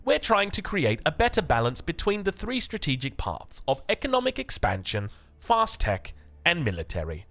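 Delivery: put-on reading the dev note in a mild, growing English accent; posh-ish English read of the patch notes, getting stronger. Streamer reads the developers' note aloud, in an English accent. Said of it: "I don't know where that English accent came from".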